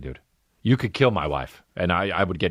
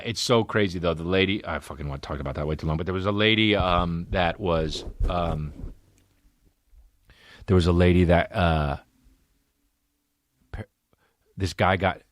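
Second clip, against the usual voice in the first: normal talking voice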